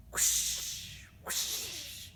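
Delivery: breathy airy whoosh of a wave; whispered whoosh. Shown as a demonstration. Teacher shows the class the sea action, whooshing. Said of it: "you can make a little whoosh noise".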